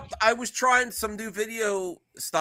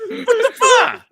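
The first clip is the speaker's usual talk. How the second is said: laughing disbelief; 8 dB louder, slower than usual. Real, not acted. Reacting to cookie crunching.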